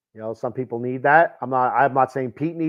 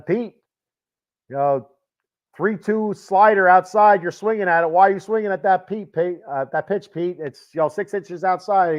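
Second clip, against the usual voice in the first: higher-pitched mock scolding of husband Pete; lightly voiced nagging wife, pitched up; 4 semitones higher than usual. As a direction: play the wife griping about a bad swing. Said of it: "the wife is yelling at him".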